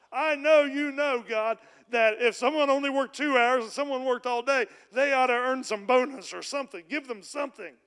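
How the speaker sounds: preacher voicing his own loud complaint to God; impassioned plea. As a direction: cry out to God that it isn't right. Pleading protest to God.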